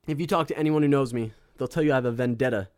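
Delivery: breathless after singing; out of breath. Real, not acted. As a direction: talk while catching your breath. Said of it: "I'm out of breath after that song".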